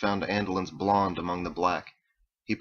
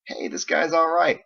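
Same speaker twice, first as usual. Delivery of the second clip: louder, higher cheer; excited approval; 9 semitones higher, 5 dB louder than usual. A narrator's reading. Ditch warms to his musician roommate, excited. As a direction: call it out, pleasantly impressed. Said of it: "they shouted the fourth chorus".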